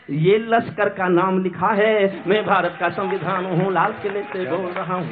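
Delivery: measured, rhythmic verse delivery; declaimed verse in a steady cadence; poem recitation. Acted. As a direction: recite it as stage poetry.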